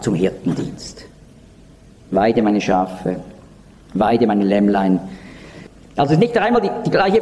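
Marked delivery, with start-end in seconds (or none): 2.1-5.0 slow solemn charge. Retold or imitated. Jesus gives the shepherd's charge.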